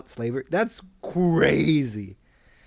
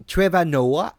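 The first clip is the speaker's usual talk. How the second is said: failed Trevor Noah accent; 3 semitones higher, 4 dB louder, slower than usual. Shown as a demonstration. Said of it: "I can't do his accent".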